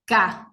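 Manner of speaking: Ka said with no throat vibration; crisp unvoiced Ka from the back; k sound demo. Shown as a demonstration. Teacher showing ka does not vibrate. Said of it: "Fíjense que no vibra".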